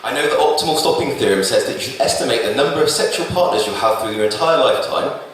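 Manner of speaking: measured recital with repeated refrain cadence; spoken-word poem. Acted. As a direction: deliver statistics as earnest love poetry, phrase by phrase. Recites his statistical love poem.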